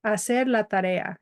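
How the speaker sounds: "Hacer" said with no H sound, as a-SER; "Hacer la tarea" beginning straight on the vowel A; silent H. Shown as a demonstration. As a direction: drop the H at the start of "Hacer". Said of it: "Do not pronounce this H".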